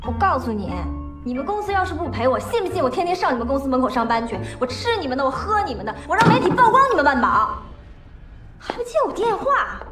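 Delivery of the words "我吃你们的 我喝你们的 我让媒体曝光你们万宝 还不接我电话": building to a furious threat; angry rising shout. Acted. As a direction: climb into a shout by the end. Angry customer threatens courier. (越说越气地喊)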